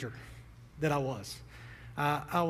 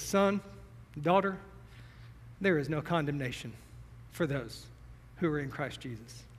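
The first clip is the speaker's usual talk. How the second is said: tender blessing; 2 semitones lower, 6 dB quieter than usual. Acted. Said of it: "puts my hand on your shoulder and says".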